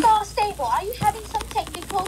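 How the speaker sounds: playful mock-British question; British accent. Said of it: "it was, like, in a British accent".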